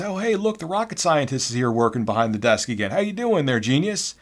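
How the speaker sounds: lightly voiced mocking customer; mocking taunt. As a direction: sneer at the clerk in a put-on voice.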